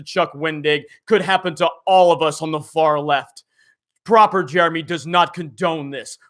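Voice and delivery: lightly voiced uptight proper gentleman; a hint of a prim, proper gentleman; proper Jeremy voice. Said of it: "the proper Jeremy voice".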